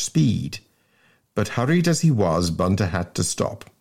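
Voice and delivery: measured storybook reading with swooping phrase openings; story narration. A narrator's reading. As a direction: narrate a comic school tale. Reads the story aloud.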